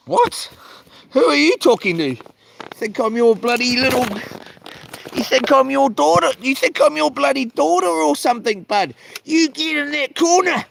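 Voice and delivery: high, incredulous mock outrage; hammed-up indignant comeback; mock indignant retort. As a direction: play up the offence in a high voice. Imagined comeback at doctor.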